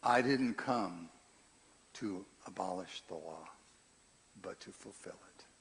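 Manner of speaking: a hint of Jesus speaking calmly; gentle mock Jesus voice, barely changed; Jesus impression. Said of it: "I'm gonna do my Jesus impression here".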